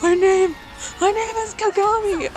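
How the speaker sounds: high, loud fed-up yell; exasperated shout. Retold or imitated. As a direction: snap it out at the last straw. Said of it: "after a while he's like".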